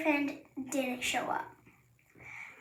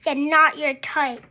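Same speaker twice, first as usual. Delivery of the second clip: drily mocking, louder; sarcastic echo; 3 semitones lower, 6 dB louder than usual. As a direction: echo it back, unconvinced.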